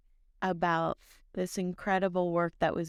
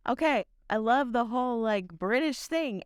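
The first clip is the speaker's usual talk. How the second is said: with passion; 5 semitones higher, 3 dB louder than usual. Shown as a demonstration. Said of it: "Say it with some passion".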